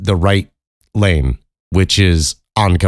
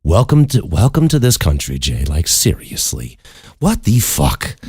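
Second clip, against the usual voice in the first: mock-cheerful, pitched-up welcome; sarcastic welcome. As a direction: greet them with bitter sarcasm. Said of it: "I go".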